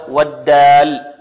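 "والدال" slow, the د clearly a stop; distinct dal. Shown as a demonstration. Teacher separates confusable letters for students, distinct slow dal. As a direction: draw out "والدال" to set د apart from ذ. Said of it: "لابد أن نفرق".

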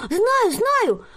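high, loud joyful cry; delighted. A narrator's reading. Girl delighted to guess her gift, high and loud. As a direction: burst out with joy. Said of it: "обрадовалась Тереза".

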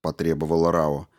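ordinary delivery, nothing marked

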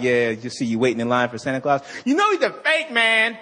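parodying a mad atheist, shouting and laughing; mock angry atheist. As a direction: rail against Santa like a furious skeptic. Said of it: "I'm like".

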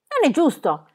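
sulky, heavy complaint; gloomy voice. A narrator's reading. Pippi complains gloomily to Tommy and Annika, a touch sulky. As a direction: mutter it like a gloomy sulk. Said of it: "disse Pippi con voce cupa".

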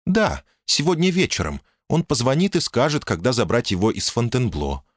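calm, sensible woman speaking up high; woman's voice. Acted.

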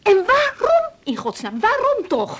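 high, anguished why; despairing plea. Acted. Wife asking her husband why Frank persecutes her, anguished. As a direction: cry out the question in despair.

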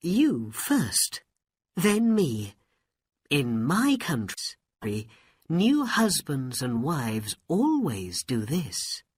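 coaxing princess. Acted. Princess coaxes magician.

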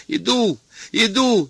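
высокий фальцетный выкрик; кричит фальцетом в страхе; крик фальцетом. A narrator's reading. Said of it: "а он всё кричал фальцетом". (Сарториус кричит фальцетом за дверью)

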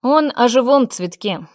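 ordinary delivery, nothing marked

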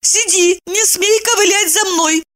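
high woman's command; tearful order. A narrator's reading. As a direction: order the dog gently but firmly. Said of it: "приказав".

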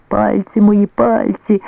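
high, pitiful whimper over his fingers; pitiful whine. A narrator's reading. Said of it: "заскиглив жалюгідно".

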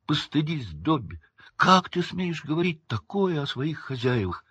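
high-pitched indignant elf; angry squeak. A narrator's reading. Winky shaming Dobby for insulting masters, angry squeak. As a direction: scold him in a high squeak. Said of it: "гневно пискнула Винки".

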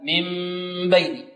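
من بين with the hidden meem held as a long hum; slow, nasal-held meem before بين; full ghunnah ikhfa. Shown as a demonstration. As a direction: hum the meem in من بين, lips lightly closed. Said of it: "هكذا".

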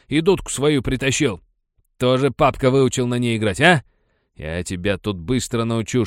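bully mocking the boy's father and pipe; jeering. A narrator's reading. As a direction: taunt him cruelly.

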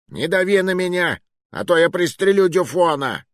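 high-pitched, flustered warning; agitated threat. A narrator's reading. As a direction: threaten from a corner, voice climbing. Cornered man threatens to shoot hostage. (взвинченно, с угрозой)

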